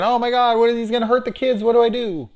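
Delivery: high, fast mock panic; panicked dad. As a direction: play the dad freaking out, voice shooting up. Panicking dad voiced in retelling.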